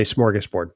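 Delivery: "smorgasbord" opening with a plain S; smorgasbord without H. Shown as a demonstration. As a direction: say "smorgasbord" with "sm", not "shm". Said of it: "There's no H in it".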